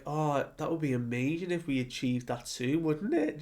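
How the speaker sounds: light, smiling hopeful tone. Retold or imitated. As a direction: say it with a smile, rising at the end. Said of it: "Just, like, smiling".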